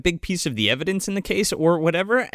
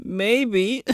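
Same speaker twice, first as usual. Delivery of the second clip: higher put-on reply; imitated woman; 6 semitones higher than usual. Co-host playing the woman's answer, higher imitated voice. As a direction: lightly mimic her, pitched up.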